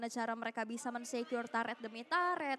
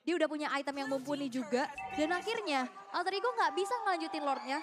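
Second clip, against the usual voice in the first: play-by-play commentary =29. Acted. Live esports play-by-play.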